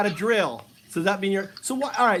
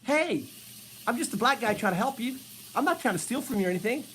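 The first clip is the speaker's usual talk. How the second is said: softer, hurried reassurance; mock reassuring; 2 semitones higher, 5 dB quieter, faster than usual. Softer, hurried plea to a scared old lady. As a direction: soothe her quickly, quietly. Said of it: "You go".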